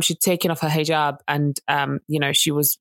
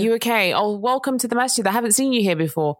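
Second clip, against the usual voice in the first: friendly welcome; 4 semitones higher, faster than usual. Retold or imitated. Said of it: "And not even".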